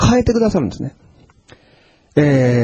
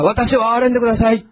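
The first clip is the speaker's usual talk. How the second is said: crying out; 5 semitones higher than usual. Retold or imitated. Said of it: "叫び続けたんです".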